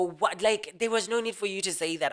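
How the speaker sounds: mildly frustrated objection; understated exasperated pushback; retold frustration. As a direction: object with a touch of annoyance. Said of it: "I'll get frustrated and go".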